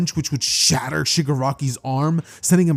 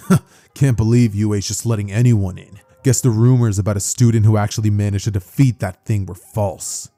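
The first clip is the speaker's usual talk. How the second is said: lower, unimpressed put-down; dismissive student; 5 semitones lower than usual. Acted. Student in the back noticing the hero, dismissive. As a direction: scoff low at the newcomer.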